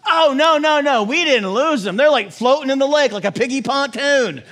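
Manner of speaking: high and loud, the herder frantically denying it all; hammed-up panic. Herder answers boss, hammed up.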